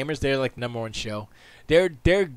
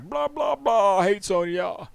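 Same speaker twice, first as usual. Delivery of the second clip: mock rant; 8 semitones higher, 4 dB louder than usual. Mocking a ranting streamer.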